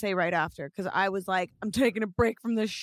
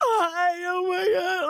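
high, very slow bawling through tears; 10 semitones higher, 4 dB louder than usual. Recalling phoning the listener, the speaker re-enacts bawling and crying. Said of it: "I was like just bawling, crying".

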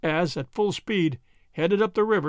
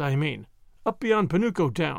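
usual speaking voice

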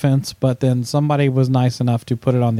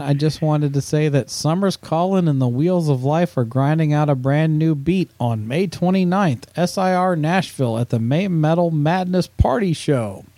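plain

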